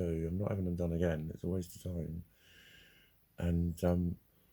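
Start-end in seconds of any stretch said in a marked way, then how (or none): none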